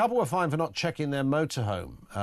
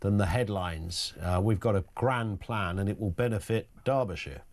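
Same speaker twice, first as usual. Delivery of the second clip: mock persuasive politician; 5 semitones lower, slower than usual. Host voicing Reform party pitch.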